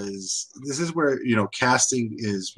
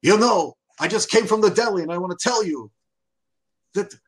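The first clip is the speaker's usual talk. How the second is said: mock New York sheriff; 5 semitones higher than usual. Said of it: "I'm going to going".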